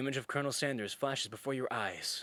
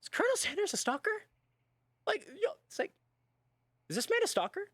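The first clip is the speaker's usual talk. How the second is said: Colonel Sanders voice; 3 dB louder than usual. Acted. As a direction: react as the uneasy Colonel. Colonel voice scared reaction.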